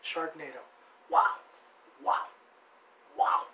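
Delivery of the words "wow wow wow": real laughter breaking into the praise; cracking up. Real, not acted. Host praising his friend's tattoo, cracking up. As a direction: laugh through the compliment.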